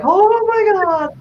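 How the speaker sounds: high, slow shocked cry; horrified gasp. Retold or imitated. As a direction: draw it out in horror. Sees hairy worm in tank.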